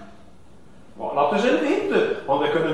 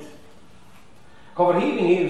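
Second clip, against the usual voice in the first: slow, drawn out; 4 semitones lower, 4 dB quieter, slower than usual. Shown as a demonstration.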